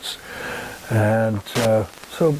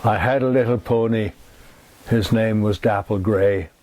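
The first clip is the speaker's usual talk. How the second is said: poem recital. Shown as a demonstration. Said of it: "oh, what the hell".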